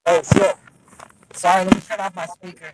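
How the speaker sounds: crackly phone line sound; distorted speakerphone voice; crackly cordless phone. Real, not acted. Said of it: "you're all crackly".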